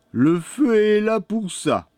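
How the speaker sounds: put-on high-pitched boy's voice; boy's retort. A narrator's reading. Pierrot points the old woman to the fire, high-pitched retort. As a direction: answer brightly up high as the boy.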